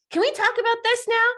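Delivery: pestering partner. Retold or imitated. Imitating Bella pestering.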